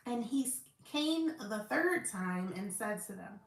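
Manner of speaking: measured, emphatic Bible read-aloud; scripture reading. Acted. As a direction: read the verses out with firm stresses.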